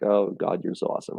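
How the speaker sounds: breathy whispered praise; hushed awe. Retold or imitated. Retelling relief after the wilderness, hushed whispered praise. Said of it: "and I'd be like".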